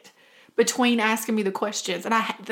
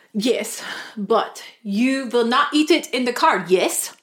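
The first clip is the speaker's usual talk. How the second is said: put-on mild German accent, stern but polite; German taxi driver; slower than usual. German taxi driver setting a rule for passengers, firm German accent. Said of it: "Do the impression of the taxi driver".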